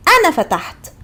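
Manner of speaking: فتحت ending on a crisp t; Egyptian Arabic demo. Shown as a demonstration. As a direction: say أنا فتحت, the t clearly sounded. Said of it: "We just added T".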